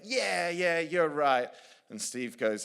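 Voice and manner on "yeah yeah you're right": loud, high crowd cheer. Retold or imitated. Townspeople cheering the objector in the hall, loud and high. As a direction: shout it like a roused crowd.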